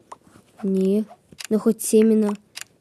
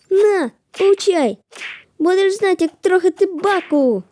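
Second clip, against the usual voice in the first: playful fight yells; mock battle cries; 4 semitones higher than usual. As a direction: punch and taunt the enemy. Hitting enemy.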